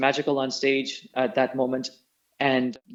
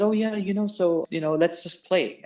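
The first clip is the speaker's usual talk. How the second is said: lightly voiced Ellen, higher and easygoing; imitating Ellen casually; 5 semitones higher than usual. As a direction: toss it off like a relaxed musician, no fuss. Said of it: "that's exactly how she said it".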